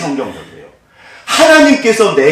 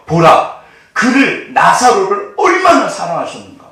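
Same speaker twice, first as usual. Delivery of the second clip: higher, louder exclamation of the watching crowd; amazed onlookers; 4 semitones higher, 4 dB louder than usual. Acted. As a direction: marvel out loud at how much he loved him. Quoting the Jews watching Jesus. (놀라며 외치는 유대인들의 목소리)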